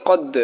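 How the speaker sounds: কদ with a pushed, echoing bounce on the final d; bounced qalqala ending on কদ. Shown as a demonstration. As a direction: push off the d in কদ so it releases with a tiny extra sound. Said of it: "কলকলা অর্থাৎ ধাক্কা দিয়ে পড়া".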